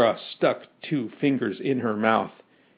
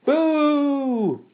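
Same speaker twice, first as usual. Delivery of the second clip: high, drawn-out boos; crowd booing; 11 semitones higher than usual. A narrator's reading. Mob turns on the professor, long high booing.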